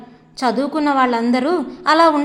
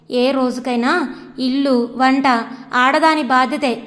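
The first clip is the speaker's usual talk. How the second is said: mocking. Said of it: "Seshagiri హేళనగా అన్నాడు".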